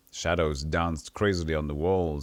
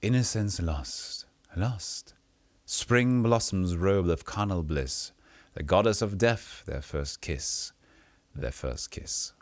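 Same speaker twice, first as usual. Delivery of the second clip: slow lilting crone chant; a touch of sing-song old woman; slower than usual. Acted. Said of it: "gravelly voice taking on a song-like quality".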